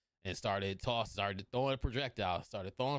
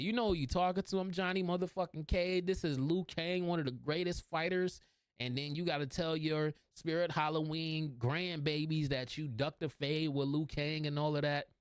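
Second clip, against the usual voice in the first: raised pitch, sustained boastful challenge; lightly acted bragging, pitched up; cocky trash talk; 5 semitones higher than usual. Cocky character challenging the opponent.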